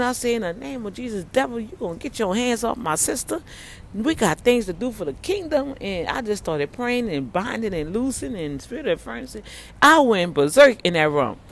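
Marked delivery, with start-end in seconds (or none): 0.3-5.8 retold prayer. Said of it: "I started praying".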